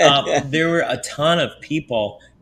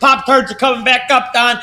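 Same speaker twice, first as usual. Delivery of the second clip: burp joke; 12 semitones higher, 7 dB louder than usual. Real, not acted. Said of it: "Excuse me".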